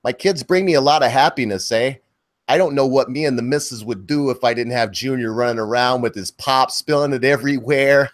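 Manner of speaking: put-on a light, understated Michigan accent; lightly put-on Michigan accent, barely shifted; his best go at a Michigan accent; Michigan accent impression. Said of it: "I'll try to do the, uh, what they would say is".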